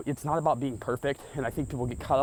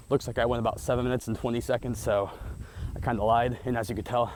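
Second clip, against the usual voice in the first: out of breath. Real, not acted. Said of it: "I'm out of breath and I can't breathe".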